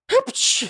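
a sudden squeaky sneeze. A narrator's reading. The prisoner sneezes in his cell. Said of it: "чихнув".

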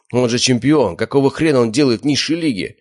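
high, loud indignant yell; outraged shout. A narrator's reading. Slavik protesting the rigged fight, outraged shout. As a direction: yell at the unfairness.

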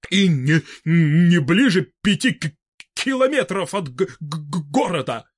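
halting, stuttering on first sounds; stammering old man. A narrator's reading. Fedor Semenovich nervously objecting to Vybegallo, stuttering. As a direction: trip over every opening syllable, nervous.

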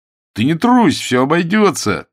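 loud encouragement. Acted. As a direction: cheer him up loudly before his first fight. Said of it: "решил его успокоить".

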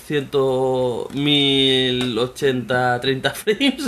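hammed-up hype, drawing out the specs very slowly; mock corporate boast. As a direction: spell out the numbers like a grand promise. Imagined Sony boasting about specs. (presumir en broma, alargando mucho las cifras)

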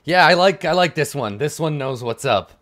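grin through it, delighted with this one; grinning approval. Acted. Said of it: "he grins and he's like".

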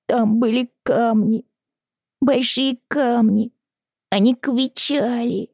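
high, slow, tearful voice; tearful child. Acted. Little girl telling her father a bad dream, high and tearful. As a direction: tell the nightmare through tears.

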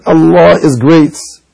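very slow, spelled-out Allah is great; slow demo in English; English takbir example. Shown as a demonstration. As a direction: say it word by word, very slowly. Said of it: "لو قال بالإنجليزية مثلًا".

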